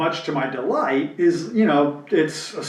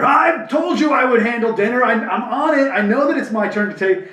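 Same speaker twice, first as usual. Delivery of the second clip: mock angry outburst; 8 semitones higher than usual. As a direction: act out a husband blowing up over dinner, half-playful. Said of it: "he just blew up".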